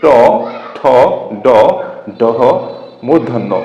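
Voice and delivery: ট ঠ ড ডহ each said alone, tongue on the front palate; one beat each for ট, ঠ, ড, ডহ; retroflex letters demo. Shown as a demonstration. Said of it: "যেমন".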